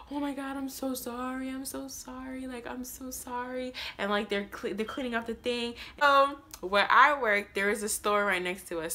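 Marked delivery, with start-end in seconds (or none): 0.1-3.7 hushed apology. Retold or imitated. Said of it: "and I'm just like".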